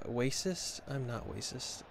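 "racist" said as "waysis"; babyish w for r. Pretend. Streamer jokingly denying it, "racist" said as "waysis". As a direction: soften the r of "racist" to a w. Spelt weisis, joke denial.

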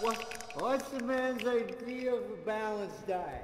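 Mister Beer voice. Pretend. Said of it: "throw my voice into Mister Beer".

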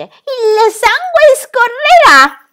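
very high, very slow screeching threat; eerie creature voice; gloating harpy. Acted. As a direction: drag out the threat with relish.

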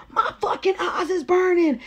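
high-pitched mock yell; retold pained yell. Pepper-sprayed man yelling out, mock pained yell. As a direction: cry out as if your eyes sting. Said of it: "this nigga yells out".

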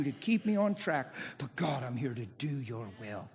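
everyday talking-to-God tone; understated, intimate thanks to a Father; personal prayer. Shown as a demonstration. Preacher praying as he does while driving, conversational prayer. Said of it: "That's how I talk to him all the time".

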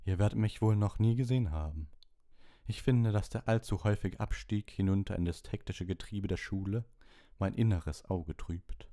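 a lightly voiced otherworldly divination teacher; a hint of a mysterious seer, unhurried at the end; dreamy seer. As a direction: speak as if half in another world. Trelawney's held voice.

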